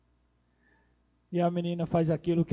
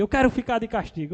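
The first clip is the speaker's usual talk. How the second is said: lightly voiced little boy, higher and quick; imitated defiant child; 6 semitones higher, 5 dB louder, faster than usual. Nephew asking uncle for punishment, lightly imitated defiant child. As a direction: toss it out like a cheeky kid.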